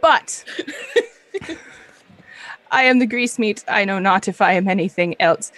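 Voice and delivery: high, mock-philosophical musing; lightly voiced meatloaf creature. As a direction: ponder selfhood like a pompous tiny meat.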